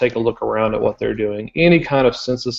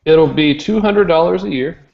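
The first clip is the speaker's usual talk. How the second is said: mock serious joke; 5 semitones higher, 4 dB louder than usual. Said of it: "Just kidding".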